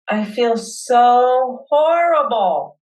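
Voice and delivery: slow and drawn out, letting the hurt in; slow heartfelt admission; really feeling it. Acted. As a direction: lean into the feeling, stretch horrible. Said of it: "Let yourself really feel it".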